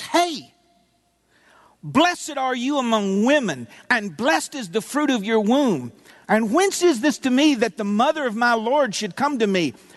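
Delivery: loud, projected voice. Retelling a Bible passage, a woman greets her visitor: loud voice. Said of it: "She spoke out with a loud voice".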